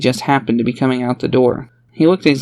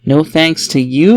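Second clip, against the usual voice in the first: slow, louder bitter jab; cold jab; 3 semitones higher, 5 dB louder, slower than usual. Acted. A woman blames the careless father, slow bitter jab. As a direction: stick it to him slowly. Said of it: "Liel said".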